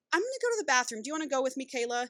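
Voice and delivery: lightly voiced nice wife; the kind wife offers a rescue; sweet wife. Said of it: "the wife's like".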